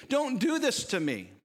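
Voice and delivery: overplayed desperate plea; mock servant begs the king for mercy; mock pleading. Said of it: "doesn't that just sound noble".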